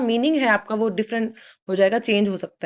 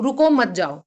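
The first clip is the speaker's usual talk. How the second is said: P=A; comma after रुको; 3 dB louder, slower than usual. Shown as a demonstration. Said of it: "रुको के बाद comma है".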